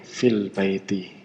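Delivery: slow, quiet "Fil baiti" with no a of al; alif not read. Shown as a demonstration. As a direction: join fi onto the l in "Fil baiti". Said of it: "enggak dibaca".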